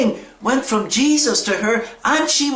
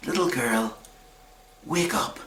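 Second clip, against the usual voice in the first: low, very soft, tender call; gentle waking; 10 semitones lower, 8 dB quieter than usual. Retold or imitated. Jesus taking the little girl's hand, hushed and tender. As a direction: rouse a sleeping child, pausing between phrases.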